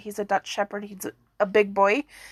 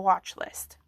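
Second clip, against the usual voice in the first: whisper; 3 semitones lower, 5 dB quieter than usual. Real, not acted. Unvoiced aside.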